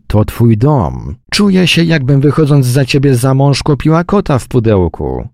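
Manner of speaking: high, loud furious wife; furious outburst. Acted. Wife shouting at her husband, loud and high in fury. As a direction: lash out at him.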